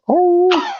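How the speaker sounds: imitating baying. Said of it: "the baying went from".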